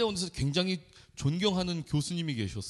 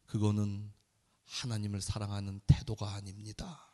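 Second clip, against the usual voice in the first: retold stern reply; 8 semitones lower, 5 dB quieter than usual. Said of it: "교수님이 하시는 말씀이".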